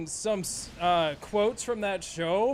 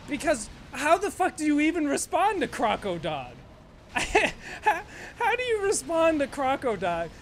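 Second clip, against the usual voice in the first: high laughing disbelief; 5 semitones higher than usual. Real, not acted. Wondering how a match could respond, laughing high. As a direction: crack up at your own joke. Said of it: "laughing at own joke".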